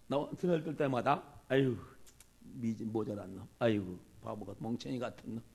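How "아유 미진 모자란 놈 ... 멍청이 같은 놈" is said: mock scolding. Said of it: "욕하고 저주하고 막 그랬어".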